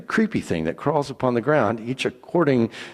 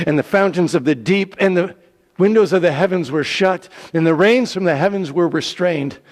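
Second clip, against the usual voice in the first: raised dramatic reading; 5 semitones higher, 5 dB louder than usual. A narrator's reading. Flood stops, raised narration.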